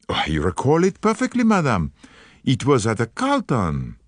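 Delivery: lightly voiced Poirot, gallant and polite; a hint of a French-accented detective, charming; courteous Belgian detective. Poirot answers the visitor.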